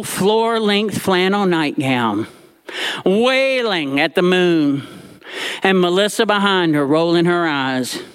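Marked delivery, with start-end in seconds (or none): none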